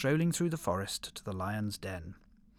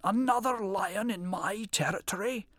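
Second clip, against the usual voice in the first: 1 roaring lion; 9 semitones higher than usual. A narrator's reading. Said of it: "roared the lion".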